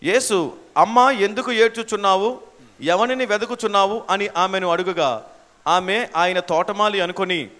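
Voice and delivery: measured, subdued Bible reading; scripture reading. Acted. Reads the verse aloud.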